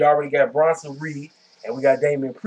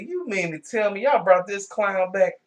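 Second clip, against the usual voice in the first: a touch of incredulous mock outrage, pitched up; disbelieving retort; 5 semitones higher than usual. Vlogger retelling his reaction to the returning wrestler, mildly incredulous. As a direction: ask it like you can't believe it, lightly. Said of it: "I said".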